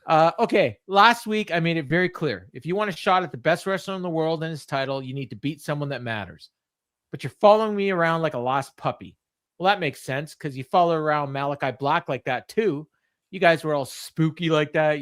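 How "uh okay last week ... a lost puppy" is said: mock him with a smug sneer; lightly voiced heel insult. Mimicking MJF insulting Brody, mildly sneering.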